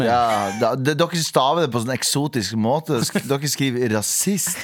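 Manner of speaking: imitating a north Norwegian accent; light north Norwegian accent impression; Sofie Elise north Norwegian accent. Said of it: "Det var veldig Sofie Elise".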